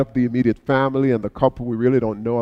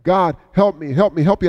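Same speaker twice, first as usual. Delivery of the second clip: pleading; 5 semitones higher than usual. Retold or imitated. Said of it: "he's pleading and he's praying".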